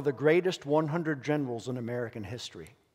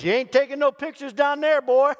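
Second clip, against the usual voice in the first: tough sergeant yell; 13 semitones higher, 12 dB louder than usual. Retold or imitated. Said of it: "he looks down and he says".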